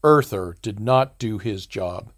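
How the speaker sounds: slow, scornful dismissal; contemptuous. Acted. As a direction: spit it out with contempt. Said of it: "he looked at me contemptuously".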